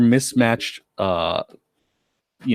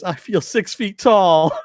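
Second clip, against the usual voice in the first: much higher, slow, proud little squeak; Billy voice; 10 semitones higher, slower than usual. Retold or imitated. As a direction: puff up like a small man who finally feels big. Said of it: "I love Billy goes".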